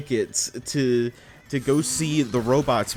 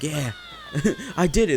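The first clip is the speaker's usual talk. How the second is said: put-on kid's cheer; 3 semitones higher than usual. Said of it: "I was like".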